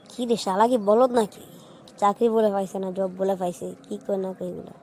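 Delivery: low grumbled aside, fading away; quiet mocking grumble about a friend who just bragged; muttering under breath. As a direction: mutter it to yourself so the friend barely hears. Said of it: "বিড়বিড় করে কি বলছিস".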